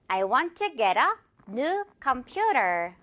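very slow, new said easily as noo, computer stressed on PU; relaxed new. Shown as a demonstration. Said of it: "우 발음으로". (아주 천천히, new는 편하게 누)

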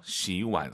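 시완 without lifting only the last syllable; 시완 as a careful tone model; tone demonstration. Shown as a demonstration. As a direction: keep 완 from jumping up alone in 시완. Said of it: "마지막 글자만 올리지 마세요".

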